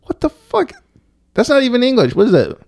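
high-pitched, incredulous disbelief; mind blown. Real, not acted. Reader learning gaol is pronounced jail, mind blown. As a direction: voice shoots way up in real bafflement. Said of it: "audio my mind being blown".

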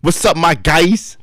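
drawn-out new-me greeting; new persona greeting. Acted. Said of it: "Oh, nah".

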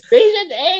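high, loud call across the room. Retold or imitated. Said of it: "Hanap ako ulit". (malakas na pagtawag)

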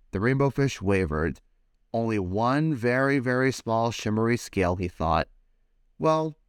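put-on lively read-aloud for children; animated picture-book reading; storybook narration. A narrator's reading. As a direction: tell it like bedtime story time.

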